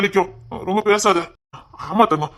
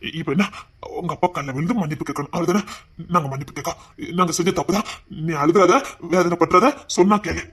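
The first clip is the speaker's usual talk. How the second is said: soft placating; 4 semitones lower, 5 dB quieter than usual. Acted. Gently promising to apologise.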